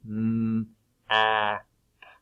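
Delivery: "M, A, P" one sound at a time; segmented sounds. Shown as a demonstration. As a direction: hum the "M", then separate "A" and "P". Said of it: "What sound is there?".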